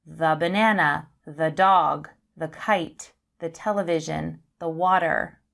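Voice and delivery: THE as "thuh" before each noun; short schwa in THE through the list. Shown as a demonstration. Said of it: "begin with consonant sounds".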